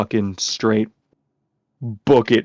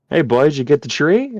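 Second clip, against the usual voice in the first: lightly voiced dad, higher and lilting up; dad checking in; 5 semitones higher than usual. Dad asking his son about the tree, lightly acted. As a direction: imitate a dad's casual question.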